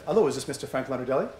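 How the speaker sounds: lightly imitated French accent, quick; hint of a French-accented phone greeting; tight French accent. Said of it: "had a very tight French accent".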